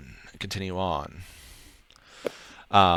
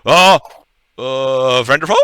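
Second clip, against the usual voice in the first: puzzled question; 5 semitones higher, 9 dB louder than usual. Acted. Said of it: "giant question mark at the end".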